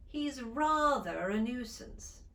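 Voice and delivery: "rather a" with the R linked into "a", slow; British linking R. Shown as a demonstration. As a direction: keep the R before the vowel in "rather a". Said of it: "Here it is".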